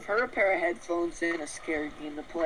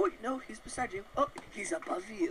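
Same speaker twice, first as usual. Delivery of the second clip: whispering; 4 semitones higher, 6 dB quieter than usual. Pretend. Teasing spooky about Slenderman.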